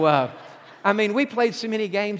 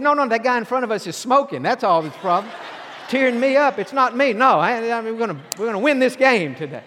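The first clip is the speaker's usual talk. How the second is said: mock defensive protest; 4 semitones higher, 5 dB louder than usual. Defensive denial of crying.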